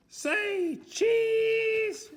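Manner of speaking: high, loud say cheese; high shouted photo call. A narrator's reading. Mister Noisy taking a photo.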